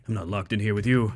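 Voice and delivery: ordinary delivery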